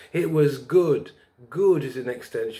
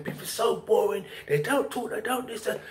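mimicking woman; 8 semitones higher, 3 dB quieter than usual. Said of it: "'Cause she's saying".

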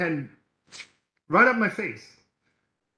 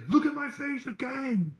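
higher mock angry snap; angry man; 10 semitones higher than usual. Preacher imitating the angry man who hit him. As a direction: throw it back like the angry stranger. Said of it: "he's like".

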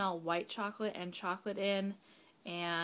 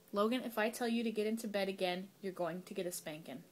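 firm, controlled bedtime scolding; real mommy voice. Real, not acted. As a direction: lay down the law as a parent. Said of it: "Sorry, mommy voice again".

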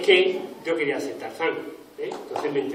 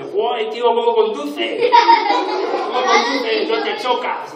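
excited, higher and louder, laughing; amazed passenger; 7 semitones higher, 9 dB louder, slower than usual. Retold or imitated. A bus passenger amazed at how the driver drives, excited. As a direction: gush over the driver in wonder. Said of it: "coge el autobús y dice".

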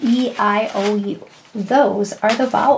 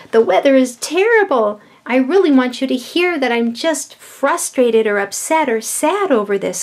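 emphatic exclamation; 3 semitones higher than usual. Shown as a demonstration. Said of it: "But this means".

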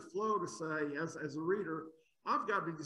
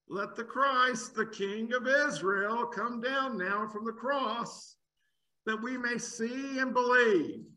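slow, louder, higher scornful taunt; mocking challenge; 4 semitones higher, 5 dB louder, slower than usual. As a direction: dare him scornfully, drawn out. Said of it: "mocked him to one another".

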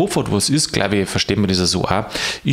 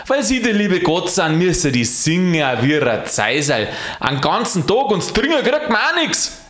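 higher grumpy Bavarian rant; grumbling rant; 5 semitones higher than usual. Acted. Alois rants at God, higher grumbling. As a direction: rant at God like a cranky porter. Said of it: "im Schimpfen drin".

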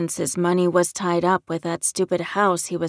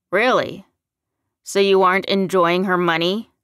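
louder, challenging questions; taunting; 7 dB louder than usual. A narrator's reading. Son to the man with his mother's money, taunting. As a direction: needle him with raised voice. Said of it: "Larry taunted".

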